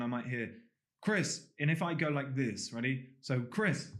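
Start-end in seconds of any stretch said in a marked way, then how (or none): 1.0-1.5 higher-pitched call of a name. Acted. Friend calls to a passer-by, calling out. 3.4-3.9 light call with a rising end. Acted. Replaying a friend's call for a demo, calling out. Replaying the name being called.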